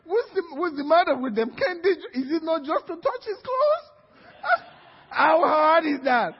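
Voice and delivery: high-pitched, whiny impatience; exasperated complaint. Acted. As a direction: fume at the people holding things up. Waiting man complains about delay.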